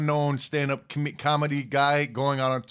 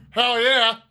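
Steve Austin voice; 7 semitones higher, 7 dB louder than usual. Shown as a demonstration. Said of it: "That sounds just like Steve Austin".

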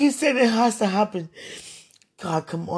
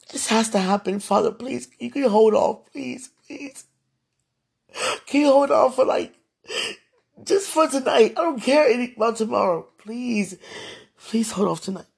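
desperate begging; 4 semitones higher than usual. Real, not acted. Begging God.

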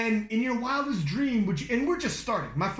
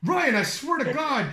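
laughing; 3 semitones higher, 4 dB louder than usual. Retold or imitated. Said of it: "And he was like".

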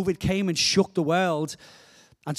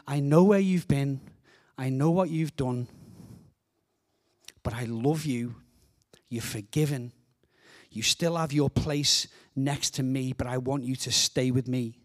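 gently reassuring; 4 semitones lower than usual. Acted. Jesus to a shamed follower by the fire, gently reassuring.

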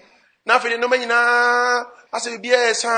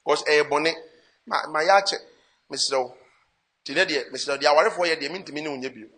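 lower, soft pleading, fading quieter at the end; pleading husband; 5 semitones lower, 4 dB quieter than usual. Retold or imitated. Husband telling his wife he cannot stay with her, soft lower pleading. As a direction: gently beg to end the marriage, softer and softer. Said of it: "Na ɔka sɛ".

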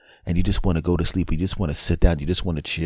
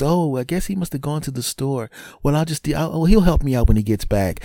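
higher-pitched imitation of an unsuspecting wife; 10 semitones higher than usual. Wife guessing he went to the store, higher imitated wife voice. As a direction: raise the pitch, play the puzzled wife. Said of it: "She looks".

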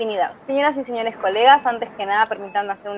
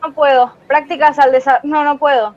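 stage fright. Acted. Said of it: "Me asusto".

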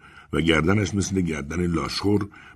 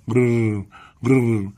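higher rolled bird purr; repeated parrot trill; 4 semitones higher, much slower than usual. A narrator's reading. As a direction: roll out two short parrot trills. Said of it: "تکرار کرد".

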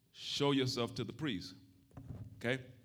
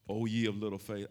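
gentle rebuke; 5 semitones lower than usual. Retold or imitated. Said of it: "he rebuked nicely".

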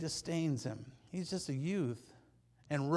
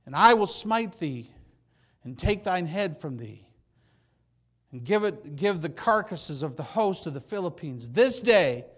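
preached defiance; 9 dB louder than usual. Acted. David's defiant speech, preached loud.

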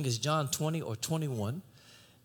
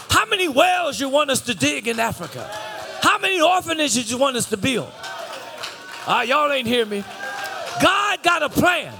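shouted preacher's cry, high and loud; roaring sermon climax; preaching at full force; 11 semitones higher, 8 dB louder than usual. Acted. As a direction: thunder it out to the congregation.

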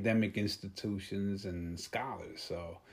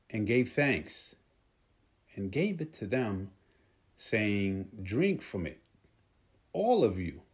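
scripture reading. Acted. Preacher reading the Last Supper verse to the congregation, measured scripture reading. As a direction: read the verse out phrase by phrase, weighting each one.

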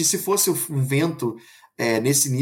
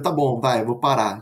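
lower, resigned imitation of dad; giving in; 4 semitones lower than usual. Father conceding to his wife after teasing, mildly resigned. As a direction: back down as the told-off husband.

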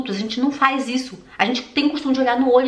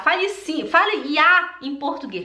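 put-on German accent; 6 semitones higher than usual. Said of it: "for pedir pra um alemão falar".

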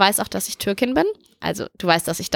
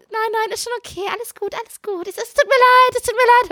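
calling after; 11 semitones higher than usual. Retold or imitated. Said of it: "Hab mir das hinterhergerufen".

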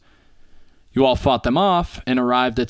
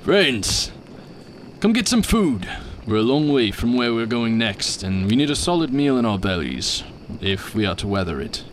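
hearty call. Acted. Heritar calls companions to breakfast.

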